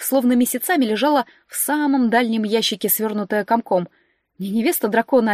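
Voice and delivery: normal talking voice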